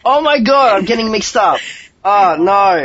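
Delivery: high, loud flustered panic; flustered surprise. Real, not acted. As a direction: blurt it out in embarrassment. Realizes she made mistake.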